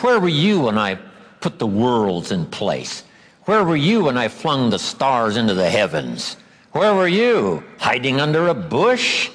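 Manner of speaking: a hint of God taunting Job; lightly voiced divine rebuke, mocking at the end; understated sarcastic challenge; mild sarcasm. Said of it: "A bit of sarcasm".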